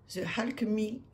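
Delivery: English title read slowly with a French accent; self-mocking French accent in English. Real, not acted. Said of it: "avec mon superbe abs-, accent".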